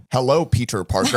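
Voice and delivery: lightly voiced American-accented wizard; mock a stiff film-hero greeting, lightly; Doctor Strange. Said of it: "his Doctor Strange is like".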